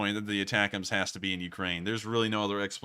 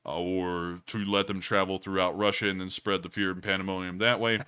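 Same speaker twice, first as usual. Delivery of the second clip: lower voice; 3 semitones lower than usual. Pretend. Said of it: "the low-tone voice that I've had".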